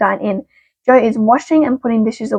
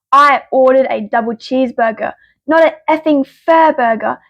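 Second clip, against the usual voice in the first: retold loud complaint. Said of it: "I very loudly said".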